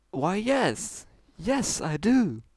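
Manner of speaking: high, grand showmare voice; proud Trixie. Acted. Trixie answering the stallion, high and proud.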